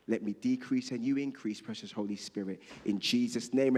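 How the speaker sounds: hushed, earnest prayer voice. Acted. Pastor praying over the congregation, hushed.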